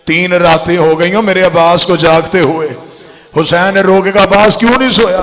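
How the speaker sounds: loud, wailing majlis recital building to a cry; grief-laden zakir's cry, loud and rising; impassioned preaching. Acted. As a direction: pour it out to the mourners at full force.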